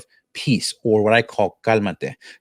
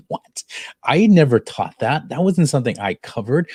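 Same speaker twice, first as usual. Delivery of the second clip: a touch of stunned disbelief, a bit higher; retold astonishment; 3 semitones higher than usual. Teacher recalling a student's surprising answer, mock astonished. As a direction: act out being caught off guard, lightly. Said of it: "here's how I was when he told me that".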